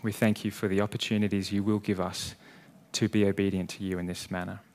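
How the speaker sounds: hushed, sincere church prayer; closing prayer. Real, not acted. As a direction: pray humbly over the congregation.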